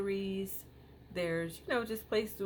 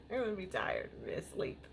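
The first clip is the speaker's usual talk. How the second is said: whispered through a laugh; 2 semitones higher than usual. Real, not acted. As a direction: giggle it almost voiceless. Jokes about being exhausted.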